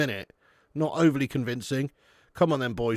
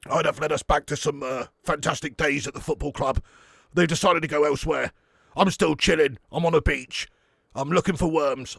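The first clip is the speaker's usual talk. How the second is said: Sean Dyche impression. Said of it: "do a Sean Dyche impression".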